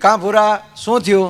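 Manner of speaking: plain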